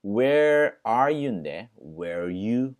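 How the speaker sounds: "where are you" run together, the R sounds blurred into one; linked where are you. Shown as a demonstration. Teacher showing how "where are you" runs together. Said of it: "R 발음이 ... 뭉쳐버리죠".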